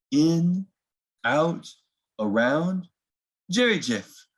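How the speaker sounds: gentle storybook reading, unhurried; reading to children. A narrator's reading. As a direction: read it like bedtime story time for little ones. Reads picture book to children.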